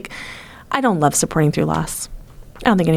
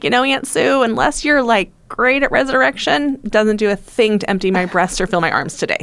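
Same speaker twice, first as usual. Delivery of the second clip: raised, sarcastic retort to aunt; mocking sarcastic reply; 4 semitones higher than usual. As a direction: sneer it politely to the aunt. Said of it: "I was like".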